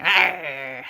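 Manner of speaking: short startled creature growl; a small, taken-aback roar; shocked monster cry. A narrator's reading. Mosasaurus startled by the bear, shocked cry. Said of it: "the mosasaurus was so shocked".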